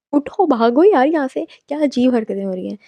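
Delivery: urgent aside, get up and run. Acted. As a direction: tell her to get out now. Narrator urging character to flee.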